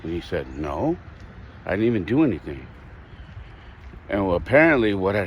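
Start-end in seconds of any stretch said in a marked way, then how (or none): 0.6-2.7 subdued retold protest; upset child. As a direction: quote a hurt kid without raising the voice. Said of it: "he was upset".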